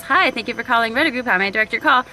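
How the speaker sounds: fast, rehearsed phone greeting; rote receptionist. Retold or imitated. Her old office self naming the firm, rote. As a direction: recite it like a script. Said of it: "me years ago working in office".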